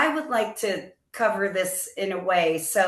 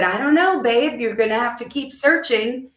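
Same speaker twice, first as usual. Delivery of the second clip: raised, brighter retold answer; higher retold reply; 4 semitones higher than usual. Wife retells reply to husband.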